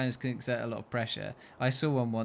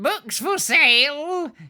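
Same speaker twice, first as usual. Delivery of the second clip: very high, very loud croak, drawn out; 10 dB louder than usual. Reading a gnarled dwarf who opens his jacket to show books, croaking. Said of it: "he croaked".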